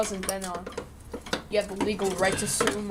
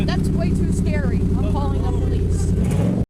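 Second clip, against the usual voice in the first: loud, high fake panic; hammed-up fright, shouted high; mock scared; 6 semitones higher, 9 dB louder than usual. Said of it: "That sounded pretty damn good".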